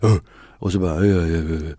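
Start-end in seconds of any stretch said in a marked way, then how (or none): 0.0-0.2 neanderthal grunt. Shown as a demonstration. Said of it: "inta någon slags neandertalkänsla". 1.0-1.7 caveman grunts. Shown as a demonstration. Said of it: "inta någon slags neandertalkänsla".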